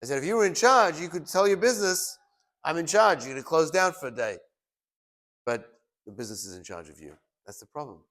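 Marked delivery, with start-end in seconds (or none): 0.2-4.4 emphatic retort. Retold or imitated. Rabbi quotes his own retort.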